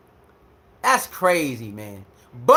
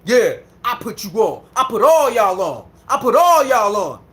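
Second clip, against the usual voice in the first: mock cocky boasting. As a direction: imitate a man bragging about who he made. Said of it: "he talk cocky now".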